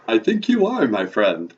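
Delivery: put-on swooping vampire accent; Count. Count amiably teasing the host back, vampire accent. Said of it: "your vampire accent".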